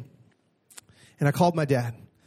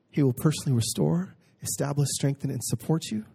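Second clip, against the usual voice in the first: softening, fading reading; 3 dB quieter than usual. Acted. Rereading the same promise softly.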